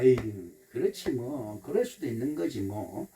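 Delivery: low, soft shrug of acceptance; hushed, easygoing self-talk; self-soothing. Acted. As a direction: pat your own heart with the words. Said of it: "이러면 내 마음을 토닥거려줘요".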